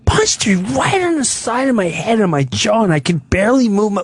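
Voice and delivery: lightly mimicked wounded elderly complaint; imitating frail mother. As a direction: complain feebly in mother's put-on voice.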